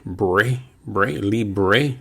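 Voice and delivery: bre and libre with a light tapped R; Spanish bre. Shown as a demonstration. Teacher drilling bre from libre for students. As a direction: libre ending in bre, like break. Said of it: "commencement of the work break".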